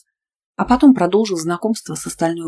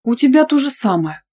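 a touch of indignation, pitched higher; indignant; 7 semitones higher, 3 dB louder than usual. A narrator's reading. Friend answering teasing friend, mildly indignant and higher. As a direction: protest back lightly offended. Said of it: "возмутилась в ответ".

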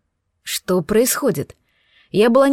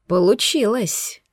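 pleased; slower than usual. Acted. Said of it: "довольным тоном сказал".

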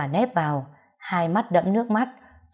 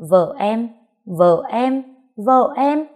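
three disbelieving echoes, each higher; incredulous echo; 5 semitones higher, 4 dB louder, slower than usual. A narrator's reading. Three adults echo the uncle's claim, incredulous. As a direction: repeat it in mounting shock, climbing in pitch. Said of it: "Cả ba người lớn đứng đó đều nhắc lại".

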